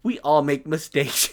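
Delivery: slow, drawn-out mock innocence; innocent smile. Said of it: "with, like, the most innocent smile and just goes".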